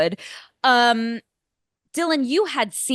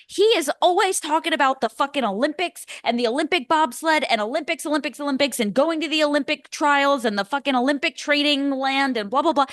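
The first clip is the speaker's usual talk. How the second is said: pitched-up, piling-on mock rant; exasperated rant; 4 semitones higher than usual. Podcaster ranting about the gym bobsledder, exasperated. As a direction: rattle off the list with mock exasperation.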